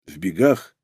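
low pained moan, broken arm; groaning in pain. Acted. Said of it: "простонал он, баюкая сломанную руку". (стон от боли в сломанной руке)

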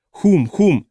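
calling out. A narrator's reading. Дильна calls to fallen Хум, who is silent, calling out. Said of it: "позвала Дильна".

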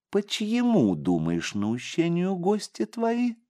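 put-on slow, sly demon child; eerie child voice. Boy reveals the betrayal.

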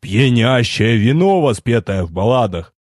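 put-on slow, solemn old sage praising; wise old sage. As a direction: proclaim it like a ballad, slowly. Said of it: "Торжественность поугасла".

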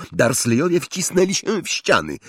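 ordinary delivery, nothing marked

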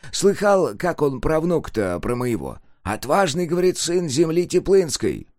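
lightly voiced eager old man; an old man, high and excited; shaky old voice. A narrator's reading. (взволнованный старческий голос)

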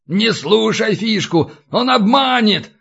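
high-pitched desperate warning; despairing wail. A narrator's reading. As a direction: wail a plea not to believe him. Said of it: "в отчаянии взвыл Катран". (отчаянный вопль, высоким голосом)

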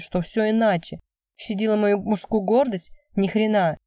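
usual speaking voice

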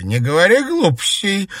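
high, loud snap back; scolding. Acted. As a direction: brush it off loudly. Grandmother brushing off tears.

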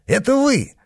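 very high, incredulous question; amazed recognition. A narrator's reading. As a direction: ask it high, in sheer surprise. Servant recognizes his former master.

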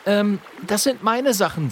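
high, hesitant apprentice; a timid young wizard; Friederich's voice. A narrator's reading. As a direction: stammer out a claim nervously.

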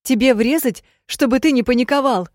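loud, high, hysterical yelling; hysterical threat. Acted. Heroine yells at panicking Ned, hysterical threat. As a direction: threaten him to stop his panic.

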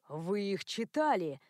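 a slow, shocked gasp of a question; aghast, slow and breathy question. A narrator's reading. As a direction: gasp in disbelief. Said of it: "ахнул он".

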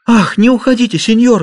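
high, loud desperate plea; girl begging her rescuer to stay, high and loud; pleading. A narrator's reading. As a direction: beg him not to leave. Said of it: "взмолилась Хулия".

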